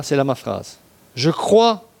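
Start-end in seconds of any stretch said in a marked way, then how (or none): 1.1-1.9 cry out. Acted. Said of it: "le père de l'enfant s'écria".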